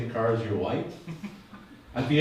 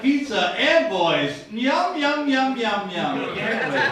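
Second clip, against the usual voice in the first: mock creep voice; 7 semitones higher, much slower than usual. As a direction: ham up a creepy eager guy. Mocking a man's thoughts.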